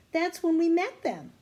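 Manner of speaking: high, loud excited realization. Acted. Annie excitedly realizing when they met the couple. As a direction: blurt it out with delight.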